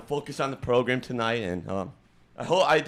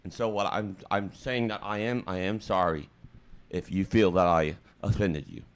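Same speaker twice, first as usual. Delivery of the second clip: low, halting show of remorse; mock emotional; 7 semitones lower, 4 dB quieter than usual. Streamer saying sorry if co-host was offended, mock emotional. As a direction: act choked up, pitch dropped well down. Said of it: "sorry, I'm getting emotional".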